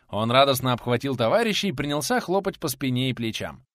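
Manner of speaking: usual speaking voice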